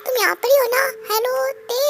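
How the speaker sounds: insistent hello to get attention; shouting in her ear. Acted. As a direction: call out to a friend lost in thought. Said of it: "मेरे कान में ऐसे चिल्लाओगी".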